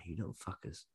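muttered Cockney insult; Cockney accent. Retold or imitated. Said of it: "Your Cockney brothers".

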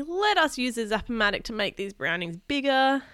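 mildly pleading request; a touch of wheedling; begging. Acted. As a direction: coax grandma like a hopeful kid. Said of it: "begged Kenny".

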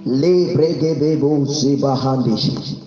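rapid rhythmic tongues; speaking in tongues. Real, not acted. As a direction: pour out the syllables in prayer.

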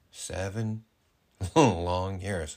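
slow, stretched-out words; drawn-out emphasis. Real, not acted. To partner about years apart, drawn-out emphasis. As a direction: draw out each word of the long wait.

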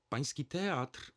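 high, drawn-out, flute-like tone; slow and high-pitched, fluting. A narrator's reading. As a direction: pipe it up sweetly like a flute. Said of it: "rozpoczął głosem fletu".

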